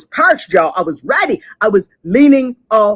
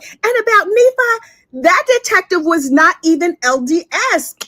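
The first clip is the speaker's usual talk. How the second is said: mimicking the defendant; 6 semitones higher than usual. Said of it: "And she was like".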